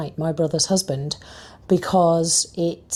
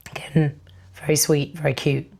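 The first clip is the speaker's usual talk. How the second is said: losing voice. Real, not acted. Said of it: "the fact that I'm losing my voice".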